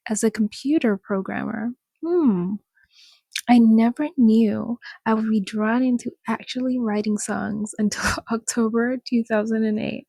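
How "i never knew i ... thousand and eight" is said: reading with a laugh creeping in; suppressed laughter. Real, not acted. Host reads singer's interview to viewers, suppressed laughter. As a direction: read on while trying not to laugh. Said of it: "I'm laughing because I know".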